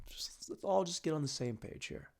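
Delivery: hushed whisper to the crowd. Real, not acted. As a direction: lean in and whisper. Whispered aside.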